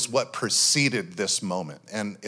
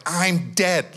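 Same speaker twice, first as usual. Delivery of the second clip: mock dramatic; 5 semitones higher than usual. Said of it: "a little bit dramatic in prayer".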